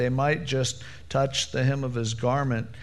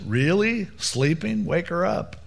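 mocking ridicule; 4 semitones higher than usual. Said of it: "making fun of him, going".

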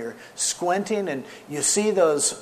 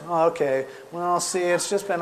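slightly higher, meek little voice; mousy guy; 3 semitones higher than usual. Retold or imitated. Exposed prank caller answering Skip, mock meek. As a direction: imitate a timid man caving in. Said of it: "he's this mousy guy".

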